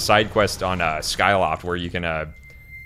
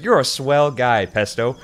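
higher, slower cartoon compliment; lightly acted friendly cartoon bird; nice bird; 5 semitones higher, 4 dB louder, slower than usual. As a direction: pay a compliment as a cartoon character. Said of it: "one of the other birds is nice to him".

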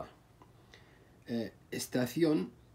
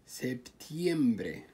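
سبتيمبري stretched out slowly; slow and careful; slower than usual. Shown as a demonstration. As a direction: draw out سبتيمبري for learners. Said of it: "نبغى نسوي لها تقسيم". (سبتيمبري ببطء)

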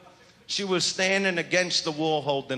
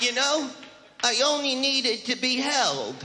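higher coy morning-after voice; mock sweet woman; 5 semitones higher than usual. Mock woman excusing the night. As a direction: coo it like a girl making excuses. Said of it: "they're like".

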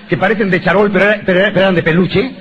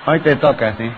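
laughing; 6 semitones lower than usual. Real, not acted.

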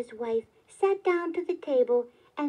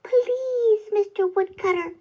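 high, courteous little plea; small elf pleading politely in a raised pitch; 7 semitones higher, 6 dB louder than usual. A narrator's reading. Elf appeals to the woodcutter, very politely, high-pitched. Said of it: "said the elf very politely".

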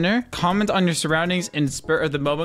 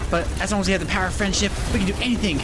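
earnest determined anime hero; much faster than usual. Acted. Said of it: "I gotta stop talking like an anime protagonist".

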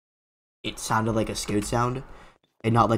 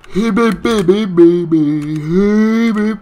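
high, loud, rapid-fire repetition; high frantic chanting; panicked babble; 6 semitones higher, 9 dB louder than usual. Real, not acted. Panicked babble while chased.

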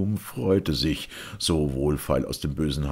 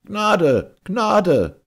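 high, loud plea for mercy; terrified cry; 9 dB louder than usual. A narrator's reading. Two guilty men throwing themselves down, terrified cry. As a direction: shout out, begging in terror. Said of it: "Sie stürzten nieder und riefen".

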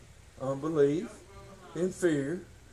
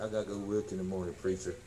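tired sister's plea; 10 semitones lower, 8 dB quieter, faster than usual. Retold or imitated. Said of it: "Sister T looked at me and said".

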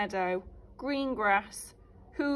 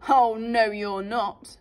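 defiant; 7 dB louder, slower than usual. Acted. Big goat defies troll.

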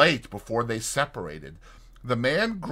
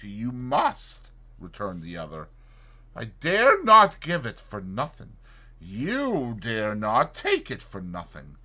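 menacing doctor; 4 semitones higher, 3 dB louder than usual. Acted. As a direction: lean on him, coldly. McFarlane's menacing reasoning.

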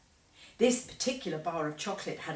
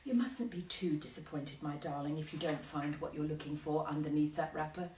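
softer, gentle mother; gently; 3 semitones lower, 5 dB quieter than usual. Acted. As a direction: soothe him softly, like a mother. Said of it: "Then Missus Bucket said gently".

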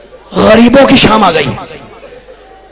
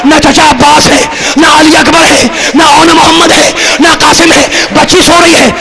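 rising wail; 5 semitones higher than usual. Acted. Majlis climax, listing the absent.

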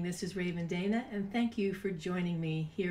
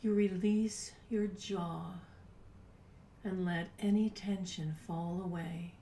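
soft guided meditation. Acted. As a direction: guide them gently into calm, breathy and unhurried. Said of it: "It's time to do a meditation".

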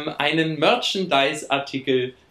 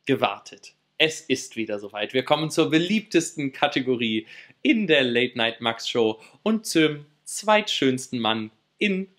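announcer; 3 semitones lower than usual. Acted. Show host introducing segment.

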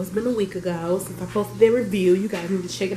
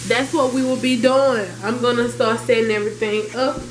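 excited; 5 semitones higher than usual. Real, not acted. Excited announcement to viewers.

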